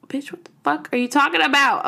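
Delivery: acted-out incredulous retort; mock outrage. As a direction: snap back as if insulted, half-playing it. Retold inner outrage at clerk.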